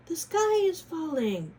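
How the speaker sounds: high, loud hen alarm; squawking hen. Acted. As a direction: squawk the warning. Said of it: "she squawked".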